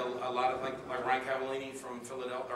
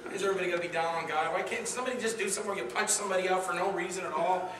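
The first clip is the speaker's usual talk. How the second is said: mock complaint; 5 semitones higher, faster than usual. Retold complaint about film's religious theme.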